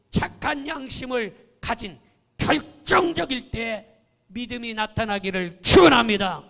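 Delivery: a blessing called out loudly, full force; ringing pulpit climax; fervent blessing. Real, not acted. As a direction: preach it home to the congregation.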